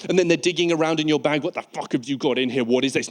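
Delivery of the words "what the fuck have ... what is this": angry security officer. Acted. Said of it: "now Bagheera is fucking angry".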